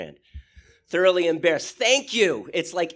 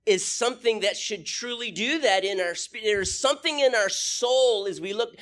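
ordinary delivery

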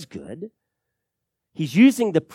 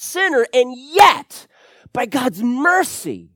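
loud, high, driving sermon delivery; thundering pulpit voice, pitched up; preaching at full force; 10 semitones higher, 7 dB louder than usual. Acted. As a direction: preach it out with rising fire.

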